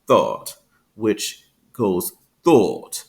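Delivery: "thought" with a long rounded "aw"; British thought vowel. Shown as a demonstration. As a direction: stretch "thought" slowly with rounded lips. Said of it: "until you get to the word".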